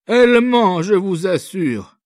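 put-on old father voice, insisting. A narrator's reading. Old father to the officer, protecting his daughter, urgent insistence. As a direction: insist urgently she is lying, lifting the voice.

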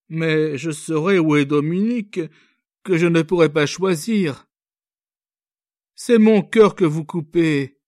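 high, anguished lament; despairing girl. A narrator's reading. Young girl to the officer, heartbroken, despairing. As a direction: pour out her despair.

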